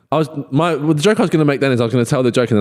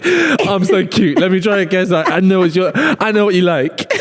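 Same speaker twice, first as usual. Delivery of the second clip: higher, playfully smug flirting; cute flirty act; 3 semitones higher than usual. Acted. Flirting with someone by guessing their answer, cutesy. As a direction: play it cute, showing off how well you know them. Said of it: "it's so flirty because it's like".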